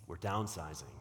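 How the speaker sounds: announcing a sad cutback; sad downsizing. Shown as a demonstration. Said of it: "I would say it like that".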